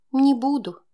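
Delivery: smiling, patronising reply; condescending. A narrator's reading. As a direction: say it like humouring a child. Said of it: "снисходительно улыбнулась она".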